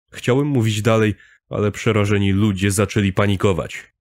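plain reading voice

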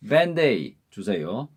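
밴데이 주세요 with 밴드 and 에이드 run together as 밴데이; 밴데이 주세요 said smoothly as one flowing phrase; linked pronunciation. Shown as a demonstration. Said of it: "연음으로 읽을 때 밴드 에이드 주세요가 아니죠".

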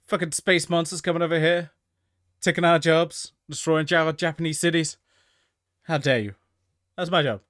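hammed-up outraged rant at the newcomers; mock angry Godzilla rant. Godzilla yelling at the space monsters, mock furious. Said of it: "That's what Godzilla's like".

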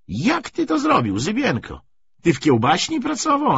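very high, teasing questions; rowdy mock interrogation; jeering banter. A narrator's reading. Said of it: "szczególnie żartowano z Zybienki".

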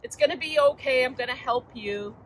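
soothing grown-up. Retold or imitated. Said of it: "a grown-up comes along and says".

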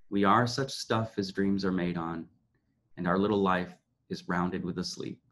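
reading Shakespeare aloud. Acted. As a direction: deliver Prospero's farewell with gravity. Reads Prospero's speech.

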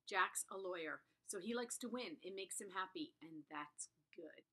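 calm first-person book reading; reading aloud. Acted. Booktuber reads the first chapter to viewers, calm narration. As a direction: read the opening lines evenly to the camera.

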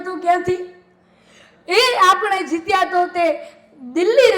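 chanting each poem line twice to the crowd; lilting folk recital, addressing sir; dayro poem recital. Acted. Folk poet reciting verses to a live audience, lilting chant.

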